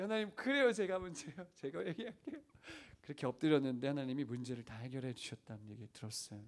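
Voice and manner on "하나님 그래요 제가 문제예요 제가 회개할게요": high, mock-weepy surrender; lightly acted crying confession; imitated tearful repentance. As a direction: give in to God with a put-on whimper. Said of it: "엉엉 울면서 회개했대".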